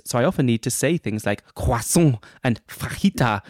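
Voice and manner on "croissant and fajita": put-on French and Spanish accents; annoying foreign accent. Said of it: "in the very annoying way".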